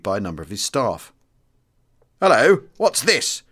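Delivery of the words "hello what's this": high, slow mock surprise; a sneering senior officer's exclamation; cried out. A narrator's reading. Senior officer cries out at a new colonel. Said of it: "cried the very senior officer".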